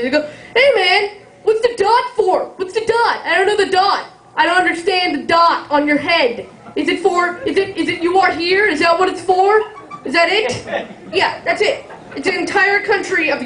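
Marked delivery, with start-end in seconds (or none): 0.5-10.6 higher mocking voice of a rude stranger; a lightly hammed-up pushy guy; rude questioner. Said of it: "most people ask me very rudely".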